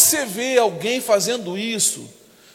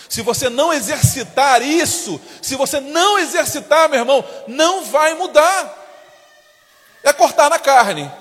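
preaching climax; building preaching shout; 3 semitones higher than usual. Real, not acted. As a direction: drive the point home to the church.

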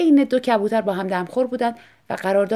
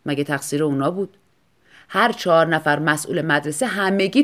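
bitter husband; 5 dB louder than usual. Acted. Husband figure in story.

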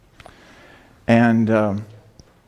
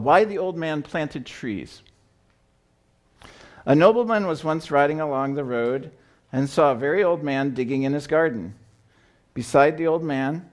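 story reading; 2 semitones higher than usual. A narrator's reading. Pastor reads children's story aloud.

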